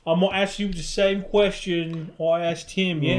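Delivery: light British impression; mock British accent. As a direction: put on a casual British lilt. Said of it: "They sound like the British sound like to us".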